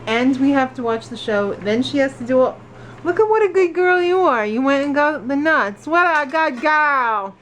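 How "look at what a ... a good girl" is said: talking to dog. Real, not acted. Praising dog in pet voice.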